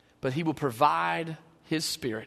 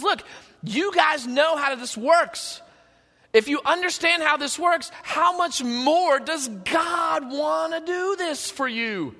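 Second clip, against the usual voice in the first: voicing Jesus; 9 semitones higher, 3 dB louder, slower than usual. Jesus voiced in sermon.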